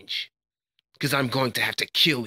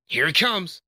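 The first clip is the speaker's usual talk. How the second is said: attack warning; 5 semitones higher than usual. Acted. Fighter warning an opponent of a coming blow, raised battle call.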